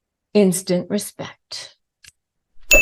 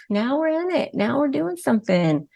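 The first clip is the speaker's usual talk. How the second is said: smug narcissist; 5 semitones higher, 5 dB quieter than usual. Retold or imitated. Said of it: "It makes them feel like".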